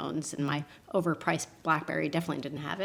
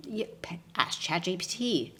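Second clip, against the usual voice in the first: sheepish whisper; embarrassed whispered admission; whispered aside; 3 dB quieter than usual. Real, not acted. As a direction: confess it under your breath.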